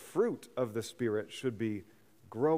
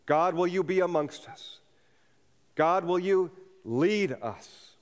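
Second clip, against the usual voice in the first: questioning prayer; 3 semitones higher than usual. Retold or imitated. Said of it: "form it in a question".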